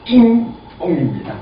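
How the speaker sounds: "잉ong" 콧소리 섞인 이 모음으로 발음; 전라도 사람처럼 "잉ong"을 힘주듯; Jeolla dialect sound. Shown as a demonstration. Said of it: "평균적으로 따지면 거기는". (전라도식 힘주는 소리를 "잉ong"으로 시범)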